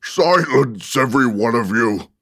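loud, high call for silence; commanding cry. A narrator's reading. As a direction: cry out to quell a noisy crowd. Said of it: "cried the Tiger Lily".

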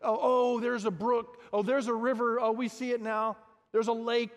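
a hammed-up "oh, there's a river"; mock excited discovery. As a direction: play it as a hammed-up discovery of water. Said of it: "It's not like".

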